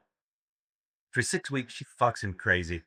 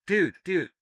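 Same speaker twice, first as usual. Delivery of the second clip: excited; 6 semitones higher than usual. Acted. Excited punchline voice.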